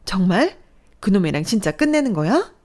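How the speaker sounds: relieved delight. Acted. Mother hearing of breakup, eager. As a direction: brighten at good news. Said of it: "화색이 돈 시모는".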